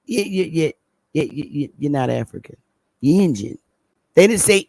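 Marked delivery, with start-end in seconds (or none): 0.0-3.6 put-on Southern accent. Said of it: "because they had their Southern accents".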